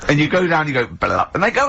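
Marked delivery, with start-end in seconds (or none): 0.9-1.3 very low croaked blah; mock frog noise. Frog boy's croak again.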